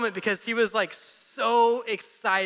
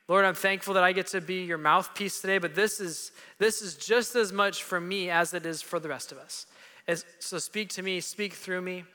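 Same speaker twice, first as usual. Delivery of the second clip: prayer. Real, not acted. Pastor leads opening prayer.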